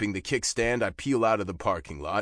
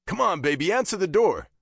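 raised, higher voice through a door; urgent calling; 9 semitones higher, 5 dB louder than usual. A narrator's reading. Biker at girlfriend's locked door, calling urgently. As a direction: urge her to open up.

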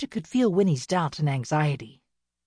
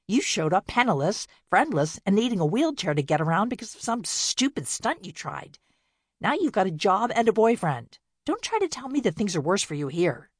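attacking; 4 semitones higher than usual. Acted. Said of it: "Bea flinched beneath the attack".

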